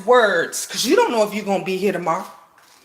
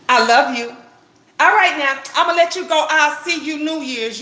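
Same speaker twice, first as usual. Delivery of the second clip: sister's joyful voice; 3 semitones higher, faster than usual. Retold or imitated. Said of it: "She said it with so much joy and personality".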